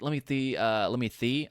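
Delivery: slight lisp on "see" as "thee". Real, not acted. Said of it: "I'm developing a lisp".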